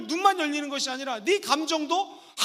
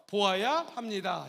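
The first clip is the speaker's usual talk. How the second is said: slow prompt; 5 semitones lower, 4 dB quieter than usual. Shown as a demonstration. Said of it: "한번 따라해볼까요?".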